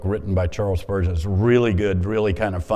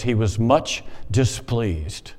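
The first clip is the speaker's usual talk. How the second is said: slow reading; slower than usual. Shown as a demonstration. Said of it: "And I'm like, "Much displeased?".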